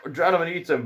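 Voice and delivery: high, mock-panicked outburst; hammed-up alarm; alarmed boy. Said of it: "and then the boy thinks".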